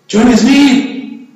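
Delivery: mock call to lure someone out. Soldier baiting a hidden enemy by name, calling out. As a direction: call the name out, drawn toward the enemy lines.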